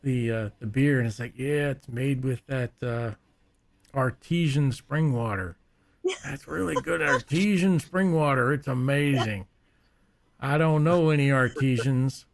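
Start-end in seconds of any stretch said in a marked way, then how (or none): 1.3-8.5 put-on old guy voice. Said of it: "the old guy sitting on the porch talking". 8.5-12.2 put-on old guy voice. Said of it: "the old guy sitting on the porch talking".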